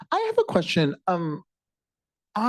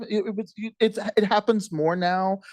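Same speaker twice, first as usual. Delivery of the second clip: normal talking voice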